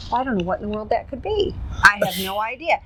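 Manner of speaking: playing dumb. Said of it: "I'm playing stupid".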